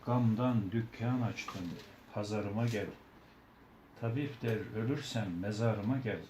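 slow, measured folk poem; poem recitation. Acted. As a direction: recite it with feeling.

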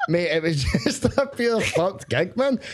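slow words pushed through real laughter; laughing, slowed down. Real, not acted. To the podcast hosts about the gig, laughing slowly.

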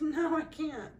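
high little voice for a puppy refusing; sleepy puppy voice. Pretend. Breeder voicing a sleepy puppy who won't wake, high puppy voice. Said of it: "She says".

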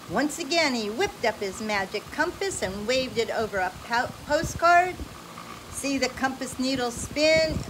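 bright, animated read-aloud voice; lively storybook reading. Acted. Parent reading an adventure story to a child, animated.

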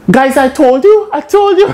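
high-pitched retold I-told-you; mock wailing. Anika telling the guys she warned them, high mock wail. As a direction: squeal it in mock dismay, laughing at the end.

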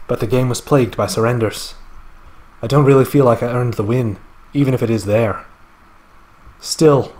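put-on a loose, wandering Scottish accent that slips into Irish and English; an amateur's Scottish accent, lapsing now and then; bad Scottish accent. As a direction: read the Austrian's script in a shaky Scottish brogue. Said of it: "really bad attempt at a Scottish accent".

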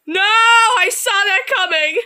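shaken voice. Real, not acted. Shaky after scare.

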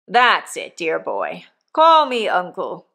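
hint of a coarse old convict talking to his boy; rough convict. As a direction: give the old convict a bluff, hearty push. Convict Magwitch voiced in story.

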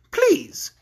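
high, drawn-out mock-polite order; cruel woman. A narrator's reading. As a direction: stretch out the request to torment him. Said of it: "continued the cruel woman".

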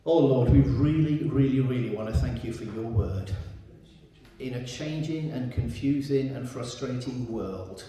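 earnest, hushed prayer voice. Acted. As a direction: pastor praying before the scripture reading. Leads the congregation in prayer.

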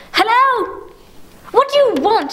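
high, strained and urgent; snatch up the phone in panic; frantic alarm. Acted. Woman answers yet another call.

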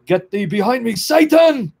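building to a high, loud cry on SATAN; dramatized exorcist's shout; commanding rebuke. Retold or imitated. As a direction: cast out the devil at full voice. Retold exorcist repeats Lord's rebuke.

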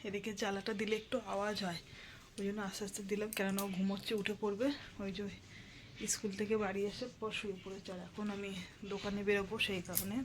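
soft, hushed talk; keeping voice down. Real, not acted. Mother vlogging near her sleeping child, keeping her voice down. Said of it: "বেশি জোরে জোরে কথা বলছি না".

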